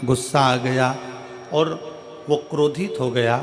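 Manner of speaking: forceful preaching. Real, not acted. Preacher drives home point to crowd.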